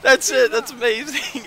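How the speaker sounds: high, loud, thrilled burst; excited yell. Retold or imitated. Radio caller hearing his song, high excited yell. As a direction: blurt it out like he's finally found it.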